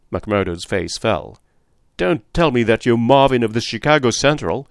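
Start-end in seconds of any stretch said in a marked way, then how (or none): 2.0-4.7 a touch of dismayed surprise; mild startled recognition; cried out. Acted. McMurdo recognising Marvin of Chicago, mild dismay. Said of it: "he cried".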